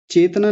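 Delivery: चेतना with the त swallowed; wrong version. Shown as a demonstration. Teacher shows what students wrongly say. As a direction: show the mistaken चेतना. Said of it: "चेतना नहीं".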